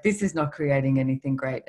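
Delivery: lightly put-on Lithuanian accent; bad Lithuanian accent. Father telling his daughter off about money, mock Lithuanian accent. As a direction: imitate a Lithuanian father, roughly. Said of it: "do a really bad Lithuanian accent".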